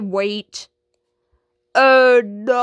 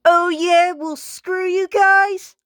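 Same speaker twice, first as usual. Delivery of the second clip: higher, slow, indignant retort; huffy storm-off; 6 semitones higher than usual. Acted. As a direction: fling it at them and flounce away. Kid storms off after losing speaker.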